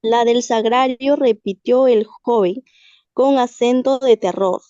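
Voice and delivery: measured dramatic reading with pauses between phrases; story reading. Acted. Student reading a tale to the class, measured dramatic reading. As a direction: read it aloud phrase by phrase, letting each hang.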